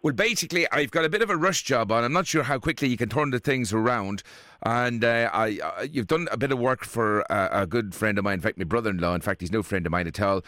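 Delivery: put-on a prank caller in a lightly done Irish accent; a hint of an Irish accent, asking a favour. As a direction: play Willie Fitzgerald, a chatty Irish fella, with a light Irish lilt. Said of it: "including me being an Irishman".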